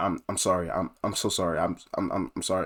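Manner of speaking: mock anxious, nervous, stumbling, stammering delivery. Retelling apologizing to a math teacher after wrong answers: imitating nervous profuse apologizing. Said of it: "I start apologizing profusely".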